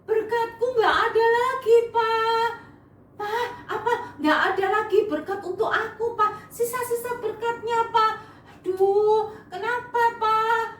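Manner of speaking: high, wailing sobbing plea; mock crying. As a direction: wail to father in mock tears. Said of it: "dia nangis".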